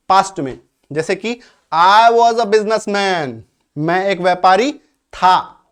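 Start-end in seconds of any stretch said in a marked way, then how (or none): 1.7-3.4 very slow, clear teacher model; slow model sentence. Shown as a demonstration. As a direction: spell it out word by word for learners. Teacher modelling example slowly.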